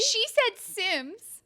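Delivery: high, slow laughing wail; laughing cry. Real, not acted. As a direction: stretch it out through laughter. Cries out, laughing, at the prompt.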